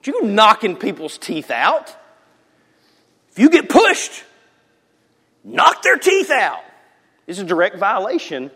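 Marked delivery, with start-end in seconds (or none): 3.4-6.6 high, loud mock egging-on; egging the kids on in jest; mock reckless advice. Preacher mock-urging kids to hit back.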